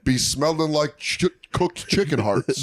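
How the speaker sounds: lightly voiced reporter reading a quote; measured mock-reporter delivery. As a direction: read it out slowly like a reporter. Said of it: "My favorite is the reporter voice".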